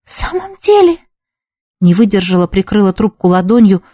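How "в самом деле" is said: high, choked, holding it together; strained voice. A narrator's reading. Girl on the phone being tickled, strained. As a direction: squeeze the words out past the tickling. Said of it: "сдавленным голосом продолжала Чолпан".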